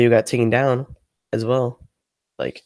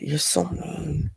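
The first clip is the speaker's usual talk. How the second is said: high, soft and slow pouty voice; cute pout; 5 semitones higher, 7 dB quieter, much slower than usual. Pretend. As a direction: pout at chat like a hurt child. Pouting at chat.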